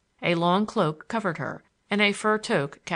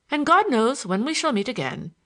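Larry at parting; 6 semitones higher, 5 dB louder than usual. A narrator's reading.

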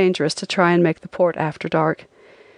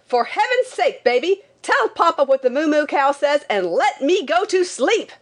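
high, exasperated outburst; frantic high-pitched cry without real volume; frantic mock shout; 8 semitones higher than usual. A narrator's reading. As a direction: plead high, desperate to be left to sleep. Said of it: "I shouted frantically".

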